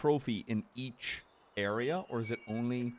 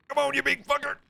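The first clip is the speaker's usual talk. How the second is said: high, urgent cheering on; willing the fish to come in; excited yell; 4 dB louder than usual. Real, not acted. Fighting a big fish on line.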